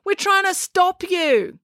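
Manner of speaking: high, exasperated sarcastic comeback. A narrator's reading. April telling the coach off, sarcastic. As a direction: throw it back sarcastically, slowing at the end. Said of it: "said April sarcastically".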